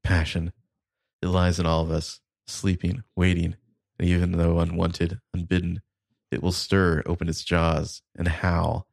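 a lightly performed, solemn recitation; dramatic monologue reading. Acted. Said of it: "I will attempt to do justice to this".

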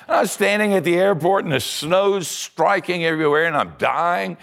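ordinary delivery

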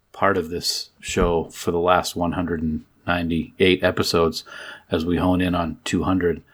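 low, restrained public-radio send-up; mock NPR voice. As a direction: play along in a subdued radio-host register. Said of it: "talk like this going forward".

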